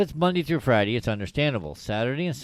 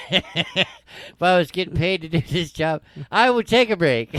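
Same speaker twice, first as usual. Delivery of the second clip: louder redo, laughing; 5 semitones higher, 3 dB louder than usual. Shown as a demonstration. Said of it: "that came out wrong".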